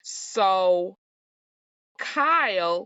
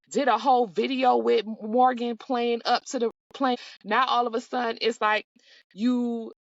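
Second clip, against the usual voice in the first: exasperated rant; 5 semitones higher than usual. Real, not acted. Ranting at Kyle's hypocrisy.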